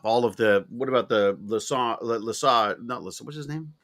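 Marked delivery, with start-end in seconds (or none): 2.8-3.7 whispered aside to himself. Real, not acted. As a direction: breathe it out, no voice. Searching for a name, aside.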